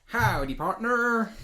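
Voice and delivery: high, drawn-out hammed cowboy howdy; repetitive cowboy greeting. Welcoming each new follower, hammed-up cowboy drawl. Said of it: "very repetitive and very irritating".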